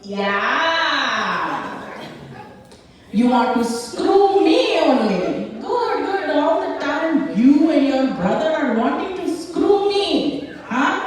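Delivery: high-pitched scolding mom voice; Indian mom impression. Mom retorts to daughter's insult, high mocking impression. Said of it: "this lady turned around and she went".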